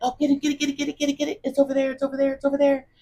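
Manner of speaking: play-acted, very high-pitched, frantic, repeated urging delivery. Retelling urging a man to get a bug that was missed: retelling own frantic urging. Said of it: "I was like".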